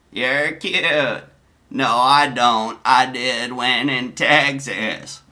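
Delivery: slow, drawn-out put-on voice; Donnie's chat voice. Streamer voicing Donnie's reply in chat, slow put-on voice. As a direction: stretch the words out slowly. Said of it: "forgive my voices".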